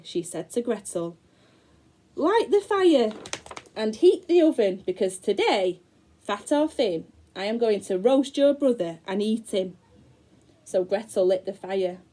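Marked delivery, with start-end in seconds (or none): 2.2-9.8 witch's voice. Acted. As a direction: order her like a wicked witch.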